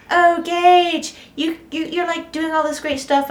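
high-pitched imitation of gushing fans; mock admirers. Gage mimicking admirers, high and gushing. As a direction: squeal it like an eager fan. People praising Gage, retold.

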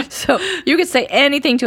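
amused, laugh spilling into the words. Real, not acted. Laughs about the empty chair.

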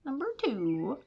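high, dramatic movie trailer announcer; turkey trailer voice. Pretend. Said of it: "that was the turkey trailer voice".

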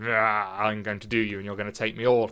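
quick, half-acted crude boast; crude paraphrase. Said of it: "in a very crude way".

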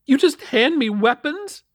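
high, loud, stammering outrage; stammer, then rise into indignant disbelief; outraged. A narrator's reading. Mother confronts officer who won't search, outraged.

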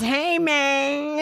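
put-on Al Pacino's Cuban-accented greeting in Scarface. Quoting Scarface to a friend, mock Cuban accent. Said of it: "in his, like, Cuban accent".

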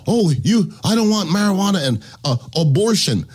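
mock quote. Mocking anti-marijuana voters.

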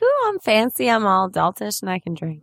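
put-on hamming up a young show-off who thinks she's fancy; fancy young adult. Co-host teasing her younger self in Canada, mock fancy squeal. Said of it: "You're like".

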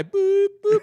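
very high, short boop; high electronic boop, held level; imitated machine beep. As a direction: beep like a descending lift. Imitating lift's beeps coming down.

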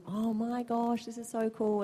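high, drawn-out "oh my gosh"; retold wonder. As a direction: recall being awed and delighted. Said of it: "I just thought".

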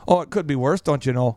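subtly pessimistic Minnesotan, dropping low; Minnesotan accent. Acted. Minnesotan in the freezing cold, subtly pessimistic accent. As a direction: sink into mild Minnesotan gloom. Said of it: "a subtle pessimism".

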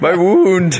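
high mock cry of pain; pained protest. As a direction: yelp as if slapped on a sore spot. Slapped on the wound.

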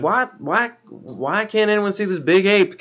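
high-pitched imitation in a Southern accent. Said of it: "Why does Matthew have a southern accent?".

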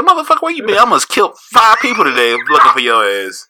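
high mock yell at his friend; a hammed-up where-have-you-been yell; retold yell. Confronting Cecil after the frantic search, mock yell. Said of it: "I said".

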